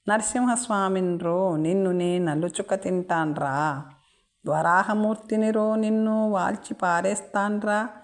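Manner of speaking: furious madman. Acted. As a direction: rant back at the mocking soldiers. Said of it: "ఉగ్రుడైపోయాడు".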